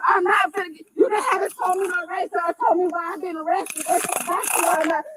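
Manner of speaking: crying and shouting. Real, not acted. Crying while restrained.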